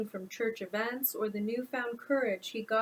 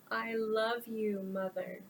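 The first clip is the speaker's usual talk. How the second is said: slow, soft and tender; comforting a crying mother, softly; 3 dB quieter, slower than usual. Acted. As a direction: hold her and calm her gently.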